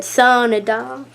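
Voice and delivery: drawn-out southern "Sunny doll"; southern accent. Shown as a demonstration. Mimicking own slip for viewers, slow southern accent. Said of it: "like, a southern accent".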